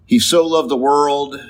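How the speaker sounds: "so" lifted slightly in "He so loved the world"; stress on so. Shown as a demonstration. Preacher repeating the key word "so". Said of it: "it says God so loved the world, not just that he loved".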